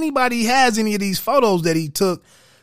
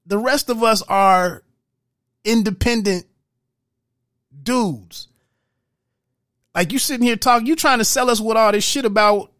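pissed-off rant; 3 semitones higher than usual. Retold or imitated. Sam Cooke lashing out at Malcolm X, angry and rising. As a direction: build from grumbling to an exasperated outburst. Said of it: "Sam is really pissed off".

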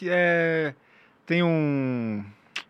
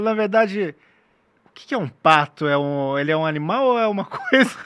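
voz aguda de bobo fingido; fingindo inocência; 5 semitones higher, 7 dB louder than usual. Pretend. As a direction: pergunta ingênua, bem aguda e alta. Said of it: "daí eu falo". (voz aguda de inocente)

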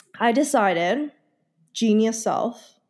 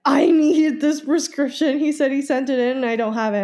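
mock panic; 4 semitones higher than usual. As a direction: plead urgently, a bit hammed-up. Panicked message to clinic.

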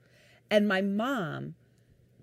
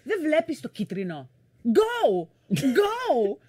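high, urgent Greek nagging; Greek mom impression; 6 semitones higher, slower than usual. Mom nagging dad at a yellow light, high urgent mom. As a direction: urge him on as an impatient mother. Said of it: "She's like".

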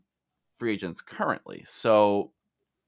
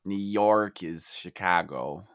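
mock Chicago accent; slower than usual. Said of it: "Chicago kind of".

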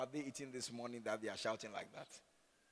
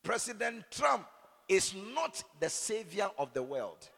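President Trump slowed, higher, NOT punched loud; emphatic preaching; 6 semitones higher, 6 dB louder than usual. Acted. Pastor making his point to the church, emphatic and loud. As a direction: hammer the NOT.

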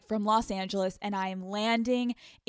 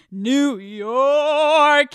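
a louder, higher burst on New York; excited exclaim; 5 semitones higher, 10 dB louder than usual. Real, not acted. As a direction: shout the name, thrilled. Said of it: "I'm so excited".

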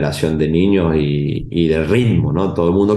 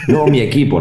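put-on kid's reply; 5 semitones higher than usual. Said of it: "Y yo digo".

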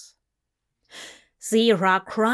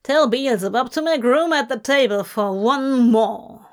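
cruel taunt; 3 semitones higher, 4 dB louder than usual. Acted. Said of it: "glared hatefully".

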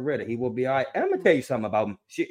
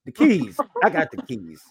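louder, punchy call-out; catchphrase call; 2 semitones higher, 5 dB louder than usual. Real, not acted. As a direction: announce it like a catchphrase. Shouting the catchphrase.

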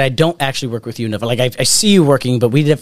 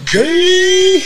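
laughing squeal; 4 dB louder than usual. Real, not acted. Punchline of a joke.

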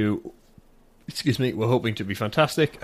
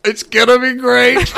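high, loud, drawn-out cheer; excited squeal; 13 semitones higher, 8 dB louder, slower than usual. Real, not acted. Host reacting to a promised Cockney accent, gleeful squeal. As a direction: squeal it slowly with glee.

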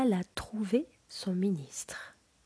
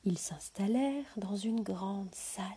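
whispered storytelling. A narrator's reading. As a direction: breathe the tale to a sleeping child. Whispered fairy-tale narration.

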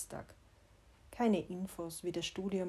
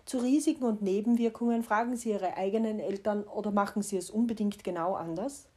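mock drug-ad disclaimer; 2 semitones higher, 5 dB louder than usual. Speaker imagines the missing child leaflet, mock ad-disclaimer voice. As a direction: rattle it off like a pharmacy ad warning. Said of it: "Wie würde der wohl lauten?".

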